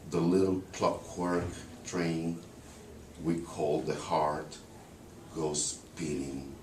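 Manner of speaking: slow, measured verse with long pauses; poem recitation. Acted. Recites the English translation.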